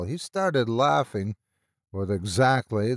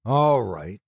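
biting, louder sarcastic concession; venomous sarcasm; 4 dB louder than usual. A narrator's reading. Doctor A mocking their theory, venomous sarcasm. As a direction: spit it out with venom. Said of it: "venomous sarcasm now pouring through his voice".

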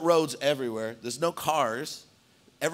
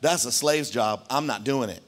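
Peter's stubborn thoughts; 2 semitones lower than usual. Retold or imitated. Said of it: "Peter's thinking".

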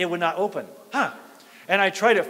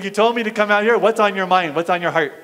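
questioning God; 6 dB louder than usual. Retold or imitated. Retells questioning God in prayer.

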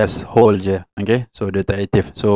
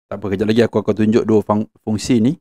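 normal talking voice

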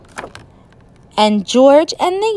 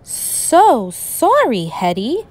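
slow, drawn-out sorry, sinking; with a sigh; 3 semitones higher, slower than usual. Acted. George apologising to Hetty, slow and sighing. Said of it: "said George with a sigh".

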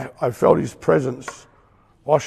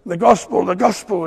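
louder, calling out the gospel, the gospel; mock loudspeaker preaching; 5 semitones higher, 5 dB louder than usual. Imitating a mall preacher on a loudspeaker, mild mock call. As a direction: proclaim it like a man in the mall on a speaker. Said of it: "on the speaker and they're going".

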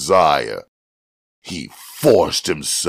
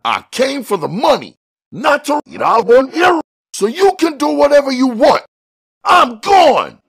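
high, building to a louder fast outburst; rising anger; 6 dB louder, faster than usual. A narrator's reading. Buddy quitting the job, louder and angrier. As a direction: fire it off and walk out.

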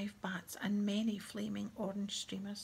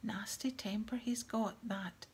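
whispered story reading. Acted.

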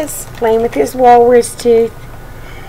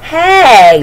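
annoyed shout; 4 semitones higher, 5 dB louder than usual. Acted. Roly protests brother sitting on him.

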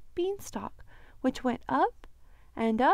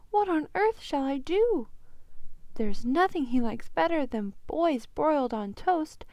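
flustered panic; 5 semitones higher, 4 dB louder than usual. Acted. Giant woman panics.

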